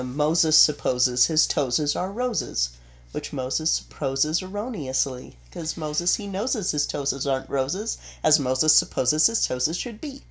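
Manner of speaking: crisp, careful tongue twister; clear diction. Shown as a demonstration. Voice coach showing a diction exercise, clear diction. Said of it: "you need to have very clear diction".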